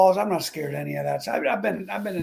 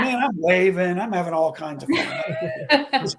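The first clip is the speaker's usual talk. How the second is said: mock carefree gloat; slower than usual. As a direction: drawl it out like showing off mid-race. Playing games with other drivers.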